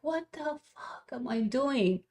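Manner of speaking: quiet, dragged-out what am I doing; exasperated self-question. Retold or imitated. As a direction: ask it under your breath in disbelief. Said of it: "I'm like".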